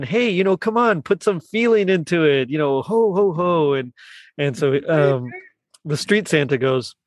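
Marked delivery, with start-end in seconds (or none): 0.0-3.7 a bit higher, mock pleading; coaxing Pete. Pete urging the street Santa, mildly voiced. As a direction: urge the Santa to put feeling in it. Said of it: "Pete's saying".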